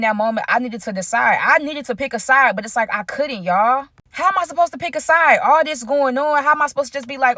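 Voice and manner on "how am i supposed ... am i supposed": pitched-up plea of a man caught in the middle; exasperated high question. Real, not acted. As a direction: throw the question up in frustration. Torn between two friends.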